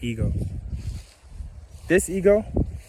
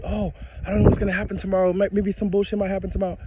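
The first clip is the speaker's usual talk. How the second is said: higher and quicker, mock fretting; worried friend; 5 semitones higher than usual. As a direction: imitate an anxious friend fussing.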